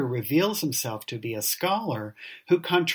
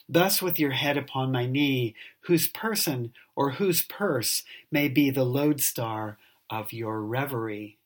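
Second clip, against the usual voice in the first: poem reading. Acted. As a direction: read it like a Victorian poem. Reads the poem aloud.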